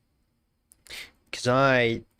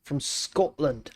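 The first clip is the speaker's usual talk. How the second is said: put-on half-hearted Scottish accent, drawn out slowly; bad Scottish accent; slower than usual. Streamer repeats the country for fun, in a bad Scottish accent. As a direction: try a Scottish accent and miss. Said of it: "My Scottish accent is very bad".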